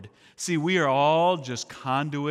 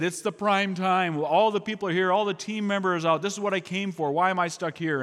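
frustrated complaining; 5 semitones higher than usual. Retold or imitated. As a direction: grumble to God about missing out. Missionary complaining to God.

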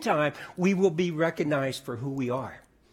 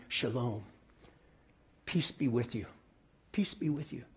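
lower, soft, fading into a whisper; hushed whisper; 5 semitones lower, 8 dB quieter than usual. Acted. Holy Spirit speaking to the worried provost, whispered. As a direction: breathe the words like a private blessing. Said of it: "speaking to me".

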